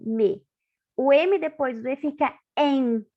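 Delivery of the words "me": "me" said clearly with the M opening the syllable; M before E. Shown as a demonstration. Teacher to pupils, showing the M before E. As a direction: say "me", lips closing first. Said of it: "Olha o som".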